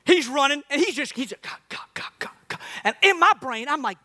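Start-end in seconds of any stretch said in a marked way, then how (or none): 1.4-2.6 soft voiceless puffs; imitated runner's puffing. Comedian mimics the man running next to him, soft puffing. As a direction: puff rhythmically under the breath.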